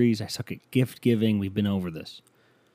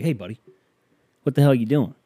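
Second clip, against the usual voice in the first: louder, higher, yelling at the other driver; angry shout at driver; 3 semitones higher, 4 dB louder, much faster than usual. Retold or imitated. To the driver who nearly hit him, angry yell. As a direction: snap at the careless driver. Road rage, hand thrown up.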